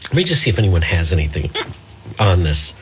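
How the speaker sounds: low voice interrupted by a hiccup. Real, not acted. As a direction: carry on talking through hiccups. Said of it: "I sound like a drunk".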